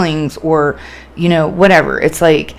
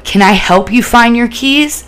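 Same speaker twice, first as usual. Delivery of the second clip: slow, higher-pitched gentle question; calm, soothing offer; 6 semitones higher than usual. Shown as a demonstration. Helper to a manic person missing keys, calm offer. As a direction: offer help slowly and reassuringly. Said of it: "Keep a calm voice".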